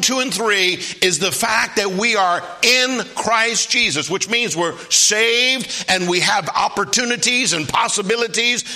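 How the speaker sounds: preacher building on his key point; emphatic preaching. Real, not acted. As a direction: press the point on the congregation.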